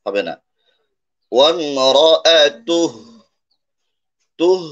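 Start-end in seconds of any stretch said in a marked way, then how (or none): 1.3-2.8 وامرأته slow and louder, last vowel dropped to a breathy h; final h only. Shown as a demonstration. Teacher says only the ha is pronounced, وامرأته ending in "tuh". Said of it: "হার উচ্চারণ হবে". 4.4-4.6 তুহ ending in an audible breathed h; stop on h. Shown as a demonstration. Teacher shows where to stop, তুহ closed with a breathed h. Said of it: "বলে আমরা থামবো".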